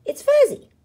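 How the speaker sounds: high squeaky thrilled cry; a little one's loud squeal of joy; excited. Acted. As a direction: announce the discovery with delight. Pip excited by discovery.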